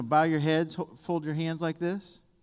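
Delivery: normal talking voice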